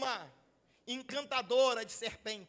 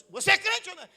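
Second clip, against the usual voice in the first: raised, loud challenge in a retold quote; mock interrogation; 4 semitones higher, 7 dB louder, much faster than usual. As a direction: press for an answer, suddenly loud. Acts pastor confronting a believer.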